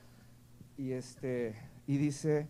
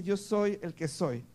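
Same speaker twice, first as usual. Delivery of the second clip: higher, slow solemn declaration; God declaring; 5 semitones higher, slower than usual. Acted. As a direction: proclaim it slowly as God. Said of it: "Dios le dice". (Dios proclamando, lento y solemne)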